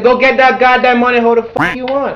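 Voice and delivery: high, loud mentor yelling; loud mentor retelling a blunt order; retold loud command. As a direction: bark it like a tough mentor pushing you. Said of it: "I don't need to get loud".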